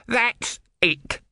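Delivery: high, loud squeaky shout. A narrator's reading. Om shouting after Brother, high and loud. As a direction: snap it out like a furious tiny god. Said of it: "shouted Om".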